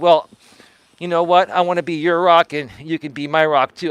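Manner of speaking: ordinary delivery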